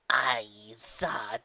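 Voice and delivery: whispered aside; hushed, breathy words. A narrator's reading. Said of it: "her words hushed".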